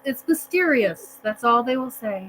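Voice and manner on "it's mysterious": slow, knowing "mysterious"; sarcastic. Real, not acted. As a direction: drag out "mysterious" with irony. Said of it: "Mysterious circumstances is all they'll say".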